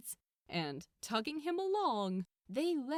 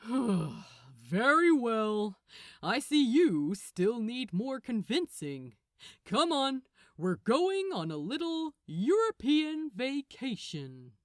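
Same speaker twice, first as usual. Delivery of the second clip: weary archangel; 7 dB louder than usual. Acted. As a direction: drag out the very, then brisk and bossy. Gabriel after dramatic sigh.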